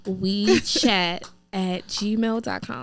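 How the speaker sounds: slow, spaced-out email address; deliberately slow. Shown as a demonstration. Host repeating the email for listeners, slowly. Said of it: "Again, I'm gonna say it slow".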